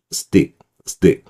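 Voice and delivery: "stick" with tense t and swallowed k; unreleased ending. Shown as a demonstration. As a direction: say "stick" like "sdi", final k barely there. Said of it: "이 정도의 발음밖에 안 나게 됩니다".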